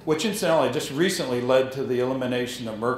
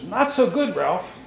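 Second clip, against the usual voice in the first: booming voice; 7 semitones higher, slower than usual. Retold or imitated. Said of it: "Bloom had this real booming voice".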